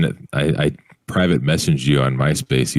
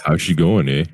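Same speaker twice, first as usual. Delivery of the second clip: light Canadian-style greeting; mock Canadian accent, lightly done; imitated Canadian accent. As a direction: put on a touch of small-town Canadian. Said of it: "wherever they're from accent".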